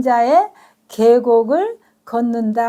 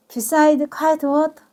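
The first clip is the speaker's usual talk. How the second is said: rhythmic slow reading; 3 semitones higher, much slower than usual. Shown as a demonstration. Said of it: "리듬이".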